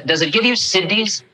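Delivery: high, lightly voiced guru asking; light hint of the old guru's voice; guru's question. Guru asking the visitor about spiritual powers.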